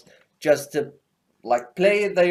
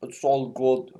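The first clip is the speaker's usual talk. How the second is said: badly faked British accent; clumsy mock-British delivery; Thatcher; 3 semitones lower, slower than usual.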